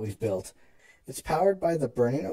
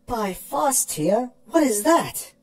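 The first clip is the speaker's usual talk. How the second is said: higher, hushed then rising in wonder; dumbfounded awe; 8 semitones higher, 4 dB louder, slower than usual. Acted. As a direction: gape at the giant machine.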